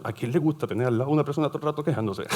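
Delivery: fast, high-pitched exasperated question. Real, not acted. Teacher asking who wants a complainer around, exasperated. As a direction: rattle it off in rising disbelief. Mock exasperation at negative people.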